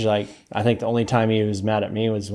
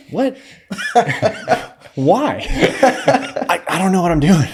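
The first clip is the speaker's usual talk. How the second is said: laughing disbelief; 9 semitones higher than usual. Retold or imitated. Panicked exchange, laughing.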